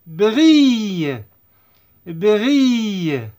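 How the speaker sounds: "Brille" as bri-y with a long gliding ending; teacher demonstrating "Brille"; double L as Y. Shown as a demonstration. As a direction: stretch the end of "Brille", no L sound. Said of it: "L se prononce I".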